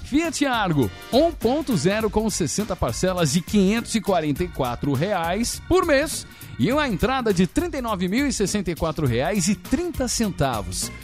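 upbeat announcer reading a car ad. Acted. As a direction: sell it like a radio commercial. Reads the Fiat Argo ad live.

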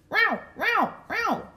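high cat meows. Acted. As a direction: meow like a cat. Cat meowing.

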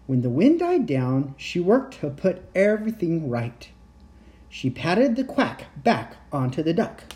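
lightly animated storytelling; bedtime story narration. A narrator's reading. Storyteller telling how she put everything right, storytelling voice. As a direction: read gently to small children, leaning on key words. Reads a picture book to children.

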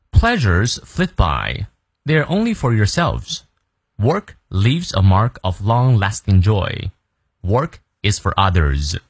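careful, slow English read-aloud; slow model reading. Shown as a demonstration. Teacher reading the quote slowly to students. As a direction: read each phrase slowly like a model for learners. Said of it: "他的这段话也很厉害".

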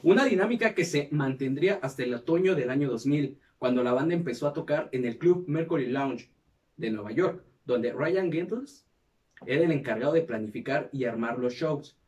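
measured documentary-style read; scripted narration. Acted. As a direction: read it out like a podcast history segment. Reads the episode script aloud.

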